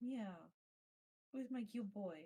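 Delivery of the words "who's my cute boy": soft half-whisper, barely above breath. Talking to a puppy while others play: half-whispering. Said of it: "What do I hear whispering of?".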